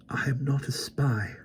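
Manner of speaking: put-on slow, hoarse whisper of a frightened boy. A narrator's reading. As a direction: whisper it, throat too dry to speak.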